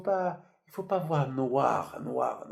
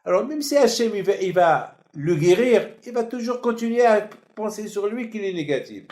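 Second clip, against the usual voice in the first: fervent preaching; 6 semitones higher, 7 dB louder than usual. Real, not acted. Preacher building intensity.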